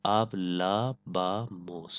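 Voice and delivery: hablábamos spelled out very slowly, every syllable stretched; careful Spanish pronunciation. Shown as a demonstration. Teacher modelling the Spanish verb for the class, very slowly. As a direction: pronounce hablábamos slowly and clearly, like a model answer.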